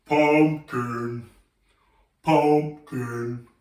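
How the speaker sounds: low, slow pumpkin voice. Shown as a demonstration. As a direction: drop the voice for a big pumpkin. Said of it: "go really low voice".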